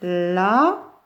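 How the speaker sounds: Lapin cut as la... pin with a long gap; split into syllables. Shown as a demonstration. Teacher tracing two syllables, Lapin in separate pieces. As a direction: stretch "la", pause, then "pin" of Lapin. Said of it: "il y a deux syllabes".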